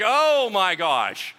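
slow awe. Retold or imitated. Child stunned at seeing dad whole again, slow and amazed. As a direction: let the wonder stretch out.

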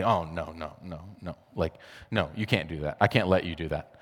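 low, soft refusal; a hint of a proud old woman saying no; grandma refusing. Grandmother refusing help, voiced.

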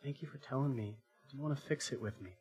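soft, reassuring dad; gentle forgiveness. Retold or imitated. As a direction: speak quietly to a sorry child. Father gently forgives his son.

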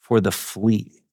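soft, slow, serene thanks. A narrator's reading. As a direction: carry on calmly, slow and soft. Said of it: "Betsy went on serenely".

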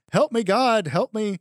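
loud, high cry for help; mock panicked yell. Retelling the Talladega Nights scene, a comic panicked yell. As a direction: yell it like a man who thinks he's on fire. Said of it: "he's like".

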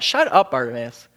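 a hint of a scolding crowd; mock rebuke. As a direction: hush him with irritated snaps. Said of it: "rebuked him and told him to be quiet".

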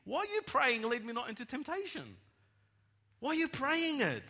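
high, loud preaching question; forceful challenge. Real, not acted. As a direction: demand it of the congregation at full voice.

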